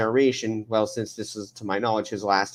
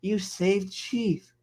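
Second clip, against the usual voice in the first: Elias; 6 semitones higher, slower than usual. Acted. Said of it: "And Elias is like".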